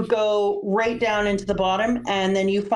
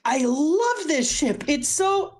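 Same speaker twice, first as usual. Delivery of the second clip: higher-pitched, drawn-out adoration; gushing; 5 semitones higher, slower than usual. Retold or imitated. Reader adoring the ship before the flashbacks, gushing. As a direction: gush lovingly, stretching the words.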